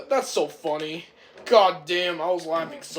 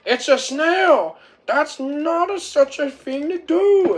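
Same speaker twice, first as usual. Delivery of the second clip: outraged shout; 11 semitones higher, 9 dB louder than usual. Retold or imitated. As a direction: bellow it, appalled. Kimley outraged at team.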